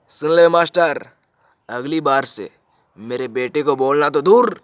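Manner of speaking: slow, forceful acted threat; threatening warning. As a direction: warn the teacher off, drawing out the words. Father starts threatening the teacher.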